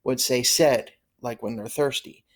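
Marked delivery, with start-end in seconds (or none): 0.4-0.9 "said" like Spanish "sed"; "said" sounded as "sed", short vowel. Shown as a demonstration. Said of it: "same way a Spanish speaker".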